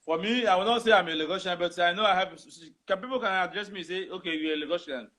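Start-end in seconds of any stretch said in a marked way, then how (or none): none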